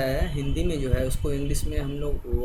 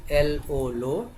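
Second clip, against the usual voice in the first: slow spelling; much slower than usual. Shown as a demonstration. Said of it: "क्या लिखेंगे?".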